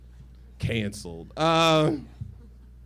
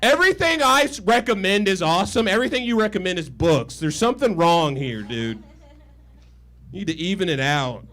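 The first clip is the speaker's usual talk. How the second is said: smug gloating; 3 dB louder than usual. Retold or imitated. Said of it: "I pause the movie and go".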